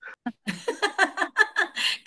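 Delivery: bright burst of laughter; real laugh. Real, not acted. Teacher laughing at a student's sleepy excuse, a real laugh. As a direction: laugh out at the joke. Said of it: "కరెక్టే sir".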